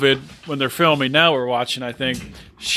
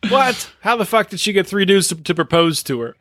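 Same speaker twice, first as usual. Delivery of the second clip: incredulous Penny; 4 semitones higher than usual. Retold or imitated. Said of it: "Penny says".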